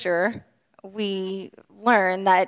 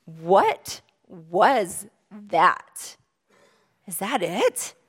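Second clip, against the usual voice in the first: baffled John; much slower than usual. Retold or imitated. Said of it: "John's sitting there in the boat staring at him going".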